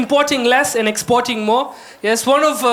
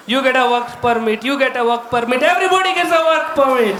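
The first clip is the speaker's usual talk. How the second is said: Oprah impression. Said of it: "Oprah Winfrey".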